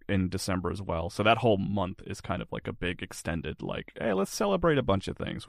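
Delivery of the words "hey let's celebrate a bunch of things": higher-pitched, lightly acted enthusiasm; mock festive cheer. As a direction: voice a breezy call to celebrate. Voices the festive month's mood.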